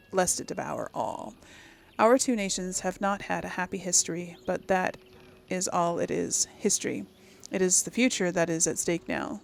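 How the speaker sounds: even, measured read-aloud voice; formal letter reading. Acted. Player reading an empress's letter to a king, formal reading.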